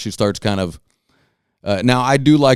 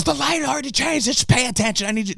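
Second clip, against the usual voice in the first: high-pitched mock Armenian-accented scolding. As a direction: imitate an irate Armenian woman, very high. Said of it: "she has an Armenian accent".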